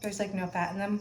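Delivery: talking while chewing gum. Real, not acted. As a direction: chew gum as you speak. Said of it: "I'm chewing gum".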